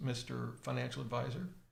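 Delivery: ordinary delivery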